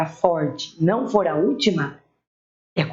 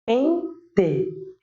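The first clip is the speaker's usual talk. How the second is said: slow two-beat "Pente" with clear final E; stressed first syllable; 4 semitones higher than usual. Shown as a demonstration. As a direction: hold a high PEN, pause, drop to TE in "Pente". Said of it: "essa aqui é a forte".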